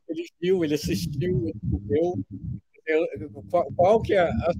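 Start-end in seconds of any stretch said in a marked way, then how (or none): 0.1-2.1 much higher, stressing the final verb: "viu", "assistiu", "comeu"; high, sing-song demo of the verb endings "viu", "assistiu", "comeu"; verse-end stress demo. Shown as a demonstration. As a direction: jump up high and hit each last syllable, "viu", "assistiu", "comeu". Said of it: "na hora que você bota no final".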